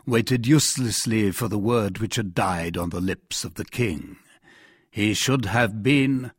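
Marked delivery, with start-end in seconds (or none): 4.9-6.3 slow, level-pitched, expectant echo; prompting cardinal. Acted. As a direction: repeat it slowly, left hanging. Cardinal prompts the king to finish.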